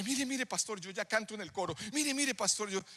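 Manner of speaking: high-pitched, insistent plea for attention; eager pleading. Acted. Choir member begging the pastor to notice him, eager.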